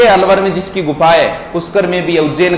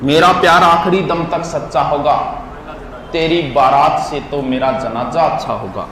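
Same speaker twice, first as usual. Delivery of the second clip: measured shayari line, lower at the end; couplet recitation; 4 semitones lower than usual. Acted.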